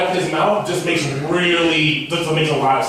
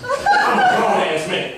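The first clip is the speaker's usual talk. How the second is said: high, slow squeal of embarrassment; squeaky exclaim; slower than usual. Real, not acted. Comic telling friends of Furby fun, squealed high and slow. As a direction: squeak it out in disbelief.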